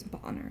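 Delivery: "bonner" with an AH vowel for banner; Irish banner. Shown as a demonstration. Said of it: "with the Irish accent".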